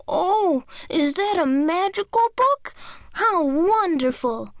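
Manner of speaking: put-on high, thrilled child voice; excited little girl. A narrator's reading. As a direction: gasp with childlike wonder. Jane sees the magic book.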